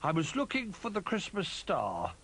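little bear voice. A narrator's reading. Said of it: "said Little Bear".

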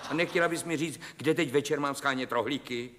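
half-laughing, fed-up protest into the phone; laughing exasperation. Acted. Husband on the phone to his wife, laughing in disbelief. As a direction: chuckle through the complaint about errands.

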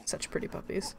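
soft breathy whisper of adoration. Real, not acted. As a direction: whisper it fondly. Adoring Dalmatians on screen.

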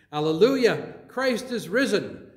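loud, ringing Alleluia; joyful proclamation. Real, not acted. Easter proclamation, leader's call.

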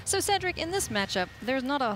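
upbeat, animated card-game play-by-play; lively esports caster; live match commentary. Acted. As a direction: carry the viewers briskly into the action.

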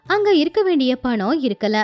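ordinary delivery

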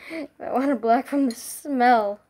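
talking through a shirt; muffled by shirt. Real, not acted. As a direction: speak through fabric over your nose. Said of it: "Sorry if my voice is muffled".

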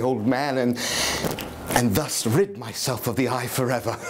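nervous, laughing madman confessing; unhinged narrator. Acted. Madman telling listeners his story, nervous and laughing. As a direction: insist you are sane while cracking.

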